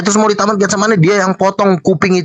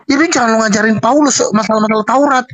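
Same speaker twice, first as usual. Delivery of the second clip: usual speaking voice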